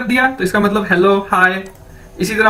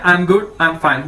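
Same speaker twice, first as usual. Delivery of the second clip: "I am good, I am fine" spelled out very slowly, lower; slow, lowered teacher model of "I am good, I am fine"; slow teaching demo; 4 semitones lower, much slower than usual. Shown as a demonstration. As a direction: drag each word out for students. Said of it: "ठीक है".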